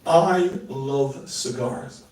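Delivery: slow, drawn-out I love cigars; slow demo. Shown as a demonstration. Showing the audience a line, slow and drawn out. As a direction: savour each word slowly. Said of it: "Watch this".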